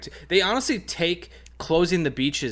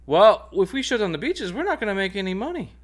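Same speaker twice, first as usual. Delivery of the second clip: high, louder mock mayor; greedy mayor voice; 9 semitones higher, 4 dB louder than usual. Mocking greedy officials.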